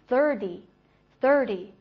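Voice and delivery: "thirty" said as "thir-dee", slowly; soft d in thirty. Shown as a demonstration. Teacher modelling thirty for learners, t softened to d. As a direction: turn the t of "thirty" into a light d. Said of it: "一般都会变成the这个音".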